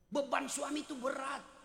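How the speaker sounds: emphatic shout. Shown as a demonstration.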